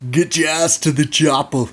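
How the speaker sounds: loud, urgent commanding shout; hammed-up rescue order, shouted; imitated action-hero voice. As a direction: bellow it like an action-movie hero. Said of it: "we hear this voice".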